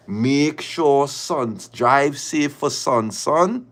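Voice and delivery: drawn-out, slow mimicry of her sweet message; sarcastic slow imitation of the other woman; slow mocking quote. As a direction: drag it out slowly, mocking her.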